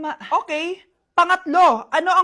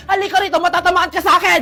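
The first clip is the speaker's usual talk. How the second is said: a half-laughed, louder comic threat; laughing mock threat; 5 dB louder, faster than usual. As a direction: threaten the kid through a laugh. Mother threatening son, laughing.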